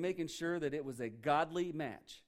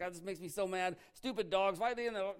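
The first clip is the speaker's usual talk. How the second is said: mock irritated rant, pitch climbing; hammed-up household grumbling; 4 semitones higher than usual. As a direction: grumble crossly like a fed-up spouse. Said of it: "they're home and they're grumbling".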